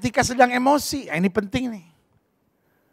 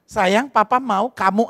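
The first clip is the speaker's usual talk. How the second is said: calm father; slower than usual. Retold or imitated. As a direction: speak gently to the child. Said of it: "tenang dulu".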